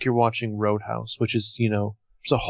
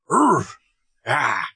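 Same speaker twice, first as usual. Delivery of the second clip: mock animal bark; 3 semitones higher than usual.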